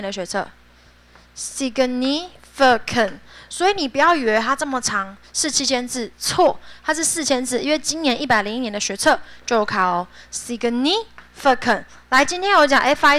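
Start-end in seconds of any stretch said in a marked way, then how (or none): 1.4-3.1 "Significant" syllable by syllable; very slow model reading. Shown as a demonstration. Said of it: "teacher modeling word". 10.3-11.8 "Significant" syllable by syllable; very slow model reading. Shown as a demonstration. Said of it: "teacher modeling word".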